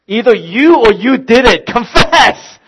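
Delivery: mock angry demand. Dad demanding the two younger kids confess, mock stern. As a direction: throw the order at them half laughing.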